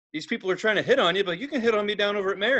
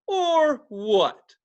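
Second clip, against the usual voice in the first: higher, mock defiant; drunken challenge; 6 semitones higher, 4 dB louder than usual. Drunk customer answering her threat, defiant. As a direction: throw it back as a dare. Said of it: "I was, like, drunk".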